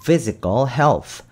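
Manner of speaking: physical health slow with a clear f for ph; F sound. Shown as a demonstration. Teacher models ph as f in physical health, slow. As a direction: bite the lip for the f in physical. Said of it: "F 발음이 나기 때문에 physical".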